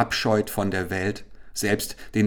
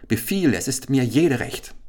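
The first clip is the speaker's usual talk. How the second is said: eager cry; 6 semitones higher, 3 dB louder than usual. Acted. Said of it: "schrie Chasid".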